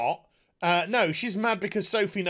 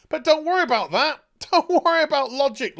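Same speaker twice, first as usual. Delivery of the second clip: sarcastic reassurance; 8 semitones higher, 5 dB louder, faster than usual. Real, not acted.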